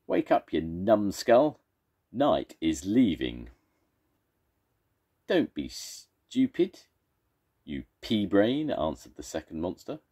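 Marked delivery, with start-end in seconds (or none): 0.1-3.5 slow, loud call through a hole; monster shout. Acted. First monster shouts through the hole to wake the second. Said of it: "He shouted through the hole". 5.3-8.7 scornful monster. Acted. Monster trading insults.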